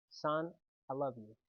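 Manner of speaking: soft, earnest "Son, I love you."; sincere. Retold or imitated. Father telling his grounded son he loves him, sincere. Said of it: "the most sincere I have felt".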